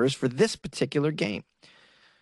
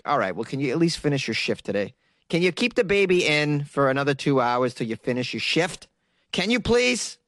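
mock pleading that climbs at the end; pleading boss. Boss asking a worker to delay the birth, mock pleading.

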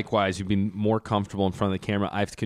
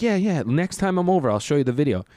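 imitated exterminator; 7 semitones higher, 3 dB louder than usual. Exterminator voiced in retold story.

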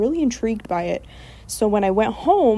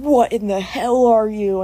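startled doctor; 4 dB louder than usual. Acted. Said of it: "stood back before saying".

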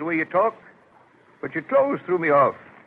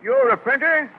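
higher-pitched, incredulous question; amused disbelief; 7 semitones higher, 4 dB louder than usual. Acted. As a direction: question it as if it were laughable. Mocking surprise at job seeker.

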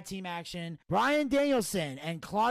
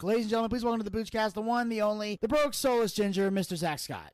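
announcer intro; faster than usual. Acted. Host formally introducing the guest.

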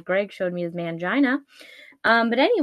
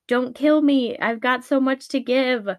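higher, mildly hammed-up plea; mock pleading cry; 4 semitones higher than usual. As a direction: beg for your life, play-acted. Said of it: "Howard cries".

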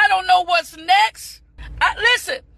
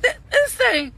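choked up; 6 semitones higher than usual. Real, not acted. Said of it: "this thing just messing me up this morning".

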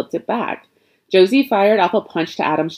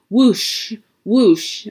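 airy imitated whoosh of passing trucks; 4 semitones higher than usual. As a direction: blow it out like a truck rushing by. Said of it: "imitate the sound of the trucks".

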